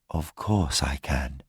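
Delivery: low, soft and gentle; gently. Acted. Madeleine comforts the dying mother, low and gentle. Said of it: "he said gently".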